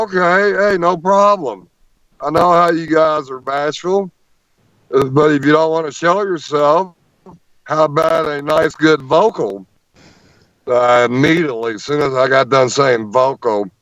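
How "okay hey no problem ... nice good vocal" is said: raised, coaxing call into the woods; calling out to Bigfoot. Retold or imitated. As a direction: coax the shy creatures, voice pitched high.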